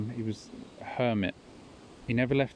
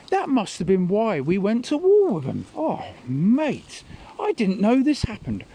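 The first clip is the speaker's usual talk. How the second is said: put-on much higher, louder indignant old man; Tom's outraged rant; 9 semitones higher, 5 dB louder than usual. Tom rants after Schindler's List, high and loud. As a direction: rant in shocked disbelief, climbing high. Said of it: "he's going".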